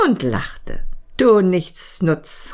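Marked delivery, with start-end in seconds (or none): 1.2-2.5 slow, fond mock scolding; tender scolding. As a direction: scold him lovingly. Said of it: "rief sie".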